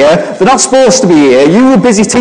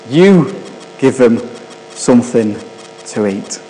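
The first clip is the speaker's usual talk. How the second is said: quiet and calm; 6 semitones lower, 5 dB quieter than usual. Acted. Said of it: "So he replied".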